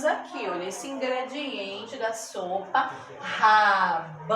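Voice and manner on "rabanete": RA-BA-NE-TE, low, very slow beats; split into syllables. Shown as a demonstration. Teacher showing four syllables in rabanete, slow and stretched. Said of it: "Quatro sílabas".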